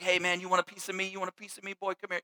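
lightly voiced teasing dad, fast and hushed; dad taunting his son to wrestle, mock-tough; playful wrestling taunt. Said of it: "just kinda like that".

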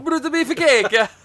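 high, loud, slow name call; announcer yell. Pretend. Podcaster hyping a wrestler's name, slow loud announcer call. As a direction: draw the name out like a ring intro.

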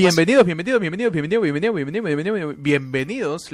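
chanting welcome at the door; hyped fairground barker. Pretend. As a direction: call out to arriving guests. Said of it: "le decimos a todos".

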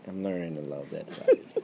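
said through a laugh; teasing, chuckling as she speaks. Real, not acted.

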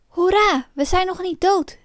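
high, jubilant exclamation; cheering cry. Acted. Pinocchio cheers at being alive, cheering cry. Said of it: "riep Pinocchio".

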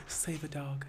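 soft mock advert appeal; whispering. Mocking a save-a-dog advert, whispering. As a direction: drop to a hushed, near-whispered plea. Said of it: "they be whispering too".

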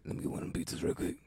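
quick, furtive whisper. Acted. Needy customer discreetly asking for pizza, whispered. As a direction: sneak the request out in a whisper. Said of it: "like, whisper".

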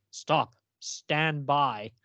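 very slow, drawn-out alien order; alien command. Retold or imitated. Alien voice from the spaceship, drawn out very slowly. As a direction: stretch each word like a robotic alien.

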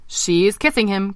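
drawn-out frog commentary; croaking frog. Acted. Eric reporting the kiss across the pond, croaking. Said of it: "croaked Eric".

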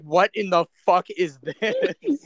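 slow, drawn-out disbelief; mock baffled founding father. Friend voicing Franklin hearing trap, slow disbelief. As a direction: stretch it out, baffled. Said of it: "he'd be like".

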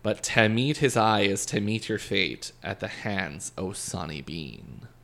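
slow reading in a Scottish accent; poem read slowly in a Scottish accent. Shown as a demonstration. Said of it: "written in really Scottish Scottish, so I'm gonna do my best".

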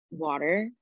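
"water" said in the speaker's own regional way; own way of saying water. Shown as a demonstration. Showing cohost how they say water, own pronunciation. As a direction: say "water" plainly, the way you naturally would. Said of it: "I say water weird".

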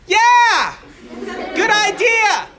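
high, loud, laughing yes; excited agreement. Retold or imitated. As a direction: cheer the idea eagerly. Soldier answers the truce call.

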